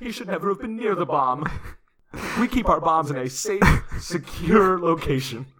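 hint of a hammed-up wife lying; mock innocent widow. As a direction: act blameless with a laugh slipping through. Continuing Debbie's fake police story.

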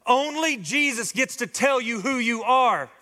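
high, ringing preacher's climax; preaching at full force. Real, not acted. Pastor to church family, preaching at full force. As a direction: lift the room with a rising sermon cry.

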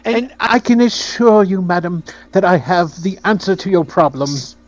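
lightly voiced self-important little fixer; Penholt. Game master plays Penholt.

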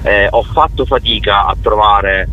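ordinary delivery

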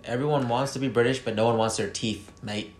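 lightly hammed-up British accent; mock British accent. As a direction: tease the British in their own accent. Puts on British accent during accents talk.

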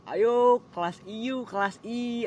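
high, loud, slow chant of friends egging on; teasing chant from the class; mock classmates' shout. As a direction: call out like rowdy classmates. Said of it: "udah pada teriak-teriak".

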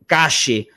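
"cache" with a hushing sh; Argentine pronunciation. Shown as a demonstration. Guest showing closed Argentine Spanish, "cache" drawn out with sh. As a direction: draw out "cache" slowly with an Argentine sh. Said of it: "espanhol um pouco mais fechado".

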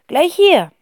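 put-on high child. Kind zeigt die Toilette.

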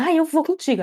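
imitating Vera tagging along to lunch; clingy mock chirp. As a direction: invite yourself cheerfully.

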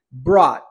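"Brought" as a falling "braw"; "Brought" with no T at the end; hidden final T. Shown as a demonstration. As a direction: swallow the T of "Brought" completely. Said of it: "escondo o som do T".

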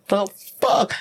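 retold shock. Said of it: "I'm like".

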